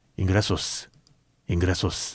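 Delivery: low, hushed, secretive whisper. Retelling how a ticket seller kept following and whispering, imitating a whisper. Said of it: "귓속말로".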